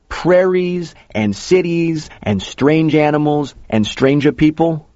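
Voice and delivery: slow, high, incantatory list; Joe, goading. A narrator's reading. Joe listing strange worlds to the eager kid, goading. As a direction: build a slow litany of wonders on a high pitch.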